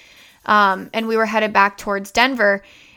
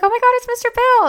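imitating the girl; 13 semitones higher, faster than usual. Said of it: "the girl was like".

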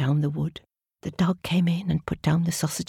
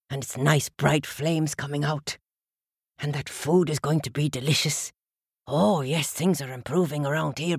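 low, friendly dog voice; a cosy, content dog; 4 semitones lower than usual. Acted. Dog character speaking.

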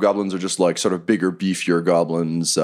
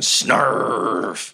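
long drawn-out growly snarf; lightly acted, slow creature bite; wolf's biting noise; 3 semitones higher than usual. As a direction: stretch it slowly into a beast noise. Wolf biting back, acted.

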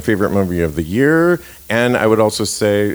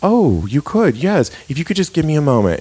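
high, fast, flustered gush; a woman caught off guard, rushing to say yes; flustered excitement; 7 semitones higher than usual. Retold or imitated. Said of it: "she's like".

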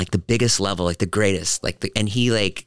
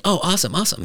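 squeaky high flustered reply, much higher; 9 semitones higher, faster than usual. Retold or imitated. Flustered high reply to a kid fan. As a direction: play it awkward, voice jumping way up.

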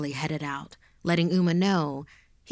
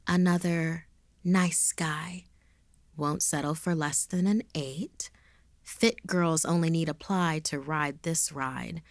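predatory reading; slower than usual. Acted. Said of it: "read the profile out loud".

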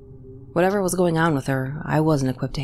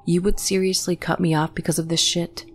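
through gritted teeth; 3 semitones higher than usual. Acted. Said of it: "through gritted teeth".

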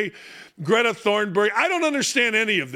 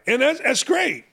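normal talking voice

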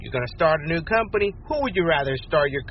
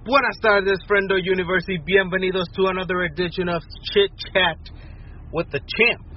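hammed-up host intro; 5 semitones higher than usual. Host persona opens his segment.

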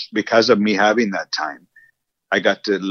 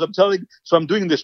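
upset, imitated; 9 semitones higher than usual. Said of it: "I was so upset".

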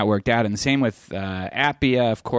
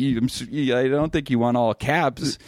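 retold protest; 5 semitones higher than usual. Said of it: "And I'd be like".

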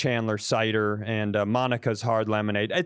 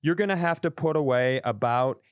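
condescending advisor; 3 semitones higher than usual. Retold or imitated. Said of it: "I was waiting for him to go".

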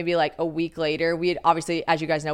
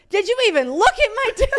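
laughing mock outrage; 4 dB louder, faster than usual. His laughing outrage, retold.

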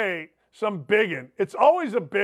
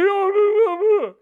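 mock panic; 11 semitones higher, 5 dB louder than usual. Mocking a caller's reaction.

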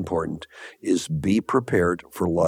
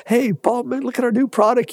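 much higher, eager pitch to a buyer; a salesman gushing over his new line; excited pitch; 14 semitones higher than usual. Retold or imitated. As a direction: burst in all fired up about the new product. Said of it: "got all excited about it".

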